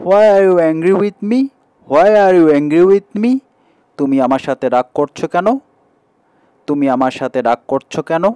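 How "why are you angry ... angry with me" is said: high, louder pleading why are you angry; acted hurt question. Shown as a demonstration. Teacher models the sentence for students, hurt and pleading. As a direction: plead like someone wronged. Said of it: "teacher models hurt question".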